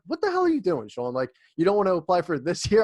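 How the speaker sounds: imitating a baffled boss; mock incredulous boss. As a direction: boss asking an intern why he waits, mock puzzled. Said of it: "And you're like".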